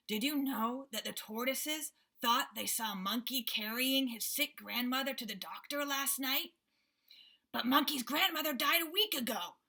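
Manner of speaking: a boar sharing gossip. Acted. Boar character voice in story.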